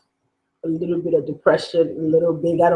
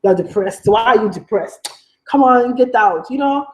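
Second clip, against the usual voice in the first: dismissive elder attitude; 2 semitones higher than usual. Retold or imitated. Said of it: "I'm African".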